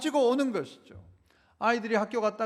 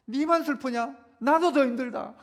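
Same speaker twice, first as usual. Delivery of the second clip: mock exasperated retort; unsympathetic mother; 2 semitones higher than usual. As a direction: brush off a child's sadness, half in jest. Mock unsympathetic mother snaps back at child.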